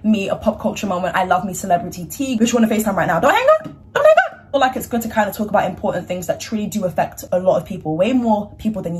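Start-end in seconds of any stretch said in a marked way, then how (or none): 3.2-3.6 high, pleading call of don't hang up; a mock plea shouted up high. Calling after a friend on FaceTime. 3.9-4.3 even higher and louder, desperate call; a mock plea at full pitch. Calling after a friend on FaceTime.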